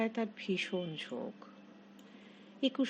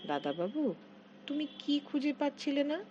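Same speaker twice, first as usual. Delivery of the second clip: gushing; 7 semitones higher than usual. A narrator's reading. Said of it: "গদগদভাবে বলল".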